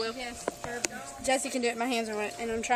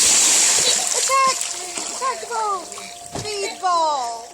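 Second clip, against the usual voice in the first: loud playful battle cry; shouting; 4 semitones higher, 5 dB louder, much slower than usual. Real, not acted. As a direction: yell it out to charge. Calling out at the ball.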